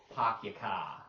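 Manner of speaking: "Park your car" as "Pahk yah cah", the r sounds dropped. Shown as a demonstration. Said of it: "the South Boston accent".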